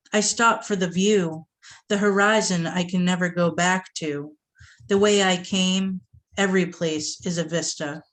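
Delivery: measured, deliberate poem delivery; spoken-word recital; poetry reading. Acted. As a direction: read it like a performed poem, weighing each line. Reads pantoum aloud.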